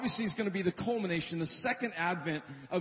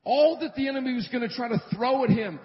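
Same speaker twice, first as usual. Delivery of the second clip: preaching loud; 5 semitones higher, 3 dB louder than usual. Real, not acted. Preaching climax.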